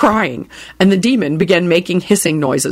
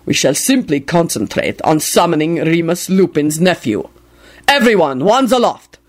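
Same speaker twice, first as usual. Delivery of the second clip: commanding bellow. Acted. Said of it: "he bellowed commandingly".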